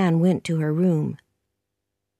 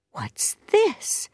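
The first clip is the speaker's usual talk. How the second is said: high-pitched puzzled surprise; light, startled question; surprised; 13 semitones higher than usual. A narrator's reading. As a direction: ask it up high, taken aback. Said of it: "thought Marilla in surprise".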